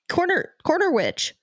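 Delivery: high, cackly witch voice. Pretend. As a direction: croak it like a storybook witch. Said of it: "Were you trying to do a witch laugh?".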